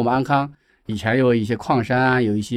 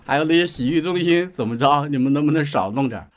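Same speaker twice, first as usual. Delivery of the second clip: mildly heated mock complaint, pitched up; retold indignant scolding; 4 semitones higher than usual. Old lady pleads with Beijingers over bathhouses, retold indignantly. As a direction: quote her exasperated telling-off. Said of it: "她就曾经到北京来就很生气".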